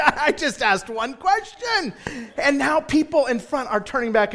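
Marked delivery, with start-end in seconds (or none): 0.0-1.9 high, drawn-out mock complaint; slow, mildly whiny plea of bewilderment; baffled protest. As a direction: protest your innocence, pitched up. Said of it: "And I'm just sitting there".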